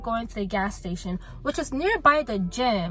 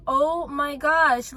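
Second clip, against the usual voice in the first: exasperated; 4 semitones higher, 6 dB louder, much slower than usual. Retold or imitated. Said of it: "I was already upset".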